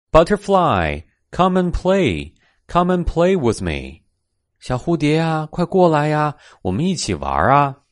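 eager little cat voice, pitched high; little cat calling. A narrator's reading. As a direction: coax a playmate in a high storybook cat voice. Kitten calls the butterfly to play.

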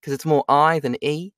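Antipodean accent, closer to New Zealand. Shown as a demonstration. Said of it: "This is more of a New Zealander".

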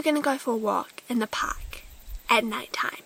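hushed whisper. Real, not acted. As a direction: whisper it secretly. Spooky night-walk story.

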